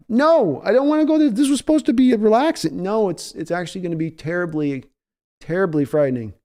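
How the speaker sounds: very high pleading whine; mock terror. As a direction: beg to get off the ride. Scared rider protest.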